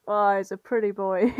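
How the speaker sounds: giggling through a mock monster line; half-laughing the monsters' leering line; laughing monster quote. Podcast host voicing fic monsters, laughing.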